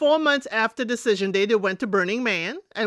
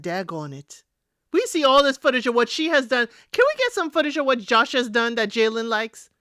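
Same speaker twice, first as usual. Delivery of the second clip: exasperated retort. Retold or imitated. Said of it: "I said".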